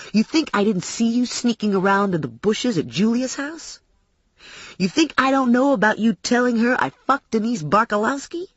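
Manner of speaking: accusing questions with a taunting edge; mildly menacing tough guy; lightly voiced menacing attacker. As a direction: confront them with what you know, lightly in character. Attacker confronts narrator.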